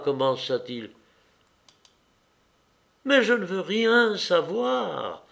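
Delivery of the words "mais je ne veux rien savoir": high, drawn-out defiant outcry; almost shouting. A narrator's reading. Anna refusing to hear his warning, almost shouting. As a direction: refuse to listen, voice pitched up. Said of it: "dit-elle presque en criant".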